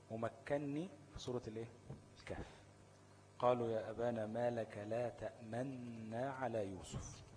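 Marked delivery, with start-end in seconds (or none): 3.4-7.2 measured, chanted reading of the verse; slow Quran recitation. Shown as a demonstration. Teacher recites the verse for students, slow and measured. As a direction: recite the verse slowly in tajweed. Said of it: "تأمنا دي أصلها إيه".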